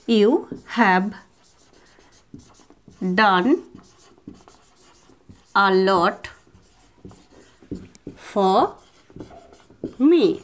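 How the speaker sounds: slow, long pauses between each word; word by word drill. Shown as a demonstration. Teacher drilling a sentence word by word, slow. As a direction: say one word at a time, pause. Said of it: "এরকমভাবে কিন্তু আমরা বলতে পারি".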